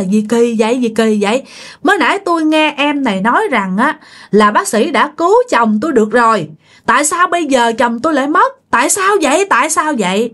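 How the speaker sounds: high, pleading wail of a new widow; distraught cry. Retold or imitated. Widow at husband's deathbed crying out why. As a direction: cry out in disbelief, pitch climbing. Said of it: "bà ngoại mới la".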